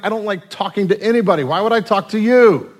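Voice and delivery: grumpy husband. Retold or imitated. Husband shrugs off wife.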